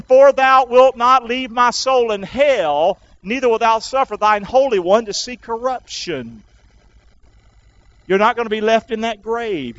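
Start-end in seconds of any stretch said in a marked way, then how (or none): 0.0-6.4 measured pulpit Bible reading; scripture reading. Real, not acted. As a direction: declaim the verse deliberately. Reads scripture aloud.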